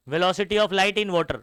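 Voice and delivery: "Velocity of light in water" read slowly, word by word; slow correct reading. Shown as a demonstration. Teacher models the correct reading for students, slowly. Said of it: "आप इसको ऐसे मत पढ़ना".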